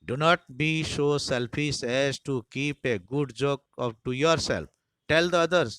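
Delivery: rising to a loud push on the last words; teasing urging. Acted. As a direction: egg the boy on.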